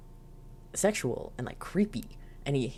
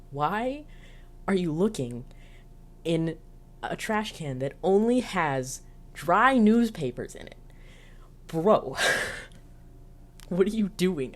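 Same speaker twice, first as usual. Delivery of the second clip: higher, incredulous, laughing at the silliness; baffled disbelief; 3 semitones higher than usual. Real, not acted. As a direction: ask it like you can't believe what you saw. Mocking baffled rant.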